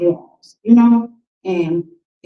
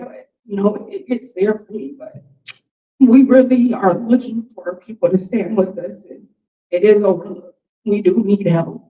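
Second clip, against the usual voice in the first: tearful, fighting back tears through each word. Speaker closing a talk to an audience, before questions: holding back tears. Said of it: "I'm trying not to cry".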